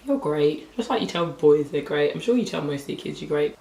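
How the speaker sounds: slightly hoarse, worn-out voice; a voice gone rough from talking. Real, not acted. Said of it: "apologise for my voice".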